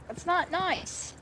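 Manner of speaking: mock gentle scold. Scolding kid softly.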